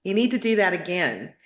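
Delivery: gently voicing a Kentucky father nudging his daughter; Kentucky drawl. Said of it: "I hear my father say".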